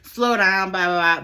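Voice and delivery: high pleading stop. Retold or imitated. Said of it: "I'm like".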